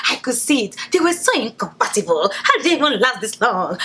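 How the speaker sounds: mock know-it-all commenters. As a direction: imitate smug online commenters, mockingly. Mimicking commenters under video.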